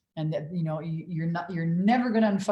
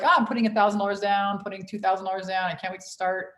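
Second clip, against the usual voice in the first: eager client; 2 semitones higher, faster than usual. Retold or imitated. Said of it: "people that are like".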